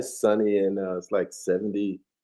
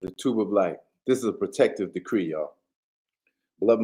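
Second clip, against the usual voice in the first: steady, solemn invocation voice; reciting an invocation to open the show, solemn prayer; prayer recitation. Acted. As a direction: intone the decree like a prayer. Logi recites a protective decree.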